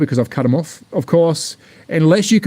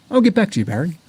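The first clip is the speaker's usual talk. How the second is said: a mock Australian accent, higher; 3 semitones higher, faster than usual. Teasing a viewer in a mock Australian accent. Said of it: "I can do Australian".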